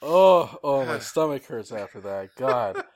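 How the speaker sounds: gasping it out after a laughing fit; after laughing hard. Real, not acted. Recovering from laughter, stomach hurts.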